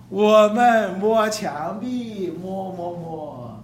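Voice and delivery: slow, hushed fumbling, feeling along a wall; groping like a blind man. Acted. Preacher acts out a blind man groping the wall, slow and hushed. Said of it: "摸，好像瞎子".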